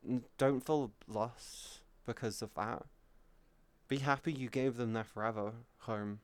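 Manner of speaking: soft, tender comfort to a grieving friend; consoling a chatter who lost their dog; gentle reassurance. Real, not acted. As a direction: speak softly, soothe them.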